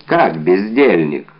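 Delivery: выше и громче, отчитывая слугу; напуститься на бездельника; возмущённый вскрик. Acted. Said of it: "вскричал Д'Артаньян". (Д'Артаньян возмущённо кричит на слугу Планше)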